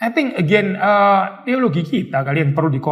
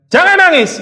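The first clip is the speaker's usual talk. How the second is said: much higher, louder mock command; merciless God; 12 semitones higher, 6 dB louder than usual. Preacher voicing a merciless God to someone hurting, harsh. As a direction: bark it like a cold, merciless God. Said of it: "Tuhannya dia juga bilang".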